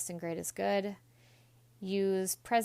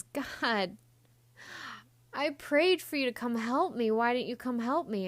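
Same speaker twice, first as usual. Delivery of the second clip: indignant complaint; 5 semitones higher, 4 dB louder than usual. Retold or imitated. Dead man complaining to God.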